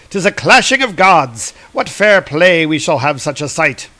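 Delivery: lightly acted delight, pitch lifted at first; delighted Hermes. Delighted god watching a clash, mildly acted delight. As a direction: relish the coming fight a little. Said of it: "Hermes is delighted by this".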